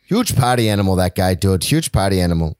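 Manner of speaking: put-on half-hearted Boston accent, dropped R in party; mock Boston accent. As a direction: play a rough Boston local. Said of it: "Why is he from Boston now?".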